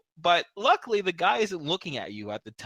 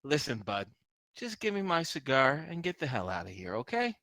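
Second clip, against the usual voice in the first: scowling; 6 dB quieter than usual. Acted. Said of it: "he has a scowl".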